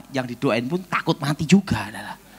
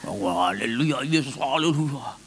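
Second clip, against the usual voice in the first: timid prayer; 3 semitones lower than usual. Retold or imitated. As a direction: pray without conviction. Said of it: "Nggak yakin ya".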